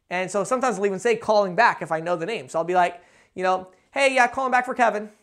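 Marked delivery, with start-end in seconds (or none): 3.9-5.1 breezy and offhand; the caller phones again, offhand and assumptive; casual, assumptive. Shown as a demonstration. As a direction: sound like you were told to call back. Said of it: "Just like that".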